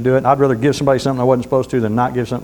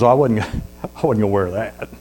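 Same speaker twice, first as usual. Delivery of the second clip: smug refusal; 5 semitones lower, 4 dB quieter than usual. Acted. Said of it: "And he goes".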